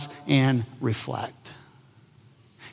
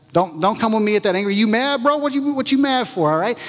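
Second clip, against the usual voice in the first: mock defensive retort; 5 semitones higher than usual. Mocking an angry person's comeback.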